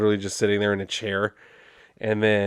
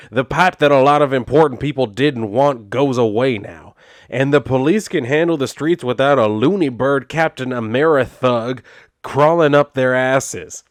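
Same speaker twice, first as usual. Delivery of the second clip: words squeezed out of one side of the mouth; lightly voiced sheriff with chew in his lip, dismissive; tobacco-chewing cop voice; 4 dB louder than usual. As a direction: play the smug small-town cop who couldn't care less. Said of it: "talking like that".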